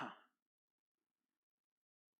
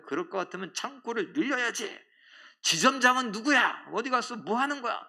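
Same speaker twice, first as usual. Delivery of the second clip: high, loud retold rant at the bank; higher, louder mock yell at staff; angry customer yelling; 8 semitones higher, 5 dB louder than usual. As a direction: bark it out like the angry old woman. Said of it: "아직 성이 안 찼는지".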